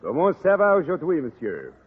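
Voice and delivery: put-on thick French accent, a charming Frenchman; French accent, courtly and flattering. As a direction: play the suave Parisian teacher, French accent.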